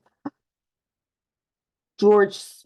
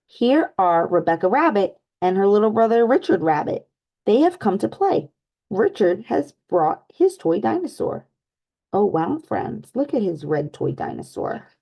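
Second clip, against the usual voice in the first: lively storybook read-aloud for little ones; animated picture-book narration; reading to children. Acted. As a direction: read it like story time with kids.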